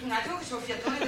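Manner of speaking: panting, words rushed; breathless after hurrying in; out of breath. Real, not acted. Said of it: "Ho il fiatone".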